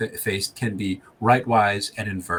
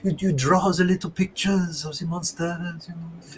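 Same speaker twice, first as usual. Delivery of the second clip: lightly voiced smug explorer with a scoff; sanctimonious greeting, daring them on; mustached explorer Pierre; 5 semitones higher than usual. Game master voices the wounded explorer, sanctimonious and scoffing. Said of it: "and he's like".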